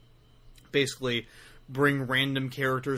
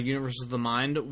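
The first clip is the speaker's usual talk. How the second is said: Universes of the Mind rushed, words run together; too fast. Shown as a demonstration. Host rushes his blog title while listing his plugs. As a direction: gabble the blog name quickly. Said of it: "said that way too fast".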